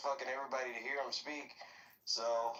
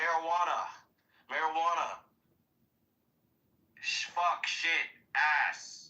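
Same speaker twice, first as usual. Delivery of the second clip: shouted; 5 dB louder, slower than usual. Real, not acted. Shouting swear words.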